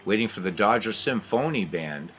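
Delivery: brisk radio ballgame call; live baseball commentary voice; play-by-play. Acted. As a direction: call every pitch like a radio announcer.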